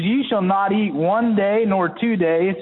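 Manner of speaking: high, slow, commanding voice of God. Acted. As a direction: proclaim it as God himself, slowly. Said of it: "And this is God speaking".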